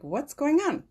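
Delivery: a high, falling "What's going on?"; their puzzled reply. Retold or imitated. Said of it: "And they're like".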